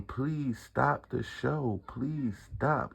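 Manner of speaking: slow, drawn-out mock plea; retold begging. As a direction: imitate a crowd begging, dragging it out slowly. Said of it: "like, begging for mercy".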